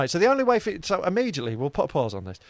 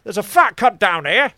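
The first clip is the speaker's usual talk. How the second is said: high panicked yelling; shouting for help; 11 semitones higher, 10 dB louder, slower than usual. Retold or imitated. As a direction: yell up from under the car. Shouting from under the car.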